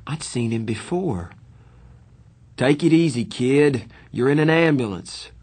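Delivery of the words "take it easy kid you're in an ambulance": a touch louder, higher grown man; calm fireman voice. A narrator's reading. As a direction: reassure the kid, steady and kind.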